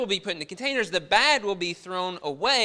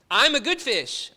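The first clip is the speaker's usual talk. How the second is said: mock protest; 6 semitones higher, 6 dB louder than usual. Fish pleading its case.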